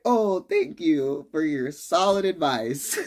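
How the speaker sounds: slow, dry sarcastic thank-you; mock gratitude, drawn out. Real, not acted. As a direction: thank them like the advice is useless. Mocking bad advice.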